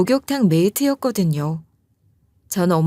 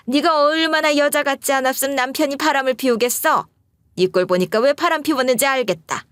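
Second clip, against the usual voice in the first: screaming taunt; 6 semitones higher than usual. Retold or imitated. Mother-in-law yelling insults at the wife, screaming. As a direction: shriek insults back, much higher. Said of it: "이렇게 악을 지르면서 싸웠다고".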